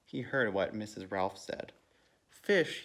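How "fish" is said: high, loud outraged cry; angry shout. A narrator's reading. Mister Rogers hears about his fish, angry shout. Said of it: "he shouted".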